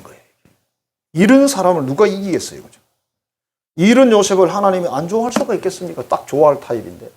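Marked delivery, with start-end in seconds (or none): none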